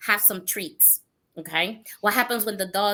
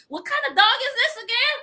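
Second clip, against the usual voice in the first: high, laughing question; amused disbelief; 13 semitones higher than usual. Retold or imitated. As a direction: marvel while struggling with the dog. Struggling to hold big dog.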